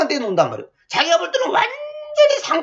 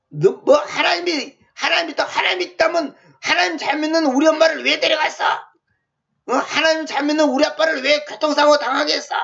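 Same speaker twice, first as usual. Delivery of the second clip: raised-pitch mock reproach; retold bitter protest to God; imitated rebellious accusation; 4 semitones higher than usual. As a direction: demand answers like an aggrieved believer. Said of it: "반항했다잖아요".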